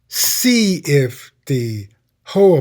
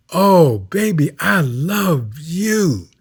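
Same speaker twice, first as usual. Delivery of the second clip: tender demo; slower than usual. Shown as a demonstration. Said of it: "can you say".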